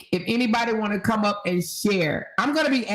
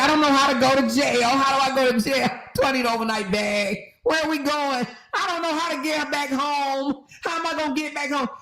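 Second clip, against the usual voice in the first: higher, fast whiny panicked mimicry; mock panicked woman; 4 semitones higher, faster than usual. Host mimicking arrested woman, mock tearful panic. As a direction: play her clueless panic, rushing. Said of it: "She said".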